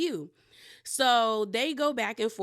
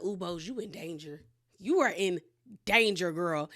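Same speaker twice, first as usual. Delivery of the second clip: hushed ooh then teasing warning; a playful warning to Bose; 3 semitones lower than usual. Real, not acted. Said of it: "I said".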